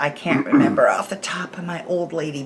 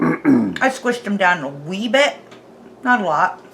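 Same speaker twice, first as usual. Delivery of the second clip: talking while chewing; words around a bite of food; mouth full; 3 dB louder than usual. Real, not acted. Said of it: "chewing with my mouth full".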